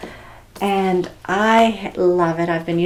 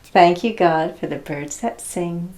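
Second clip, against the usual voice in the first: prayer line to repeat; 3 dB louder than usual. Shown as a demonstration. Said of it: "I'm gonna say a line, and then you're gonna copy me".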